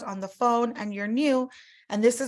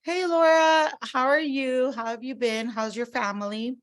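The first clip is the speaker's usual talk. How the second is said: role-play greeting; 3 semitones higher than usual. Shown as a demonstration. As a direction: greet the client like an eager rep. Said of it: "I'll do this with Laura".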